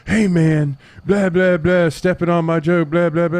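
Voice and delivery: high, loud imitation of an angry complainer; hammed-up indignant blah-blah; mock huff. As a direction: mimic someone ranting in a huff. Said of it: "came outside in a fucking huff".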